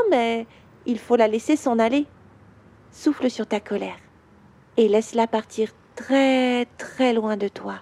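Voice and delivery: calm questions with long pauses, as a gentle father; soothing guided visualisation. Acted. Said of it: "Je vais te parler comme me parle mon papa".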